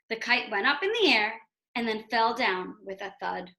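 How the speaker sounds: put-on measured read-aloud narration for kids; storybook narrator voice; story reading. A narrator's reading. Teacher reads book aloud.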